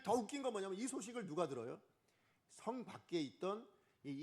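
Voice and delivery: ordinary talk, nothing marked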